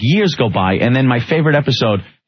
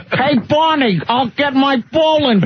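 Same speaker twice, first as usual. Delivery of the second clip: higher and slow, a bad replacement Fred; mock cartoon Fred, slow and higher; fake Fred voice; 9 semitones higher, slower than usual. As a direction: play the wrong cartoon voice. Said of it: "What the frig is that? It's not Fred".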